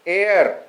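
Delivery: एयर said with no H at the start; silent H. Shown as a demonstration. Teacher gives learners the next example, एयर with silent H. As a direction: open एयर straight on the vowel, H dropped. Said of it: "एच silent है".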